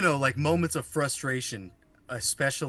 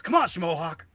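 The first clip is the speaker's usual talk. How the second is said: lightly imitated exasperated catchphrase; louder, higher quote of a comedian; Larry David; 5 semitones higher, 6 dB louder than usual. Quoting a TV comedian for a friend, light imitation. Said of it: "Larry David says. He goes".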